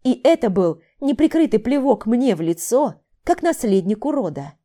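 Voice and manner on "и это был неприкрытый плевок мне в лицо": ordinary delivery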